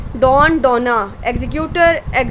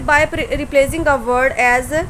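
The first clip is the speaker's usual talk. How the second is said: very slow, each word set apart; dictating slowly; much slower than usual. Shown as a demonstration. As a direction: read the heading out slowly for dictation. Teacher dictates the rule heading. (नोट्स के लिए बहुत धीरे बोलना)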